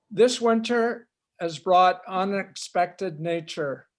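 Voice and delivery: measured poetry reading with pauses; unhurried recital of a poem. Acted. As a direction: read it line by line, deliberately. Reads own poem aloud.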